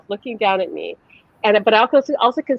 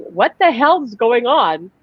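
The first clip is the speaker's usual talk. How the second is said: higher-pitched, mildly freaked-out questioning; retold alarm; 4 semitones higher than usual. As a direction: act out being alarmed at the sight. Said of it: "but I still freaked me out".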